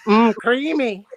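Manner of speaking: loud, relishing character quote; character catchphrase. Acted. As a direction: savour it loudly in character. Quoting Old Greg catchphrase.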